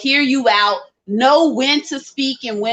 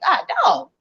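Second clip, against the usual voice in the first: groaning viewer; 9 semitones higher than usual. Retold or imitated. Voicing viewers' groaning reaction.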